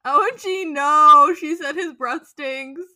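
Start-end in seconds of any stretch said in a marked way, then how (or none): 0.1-1.3 loud mock-anguished "no"; stressed-out outburst. Reading own notes on the scene, stressed-out outburst. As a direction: build to a much louder cry of protest. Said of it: "Stressed out".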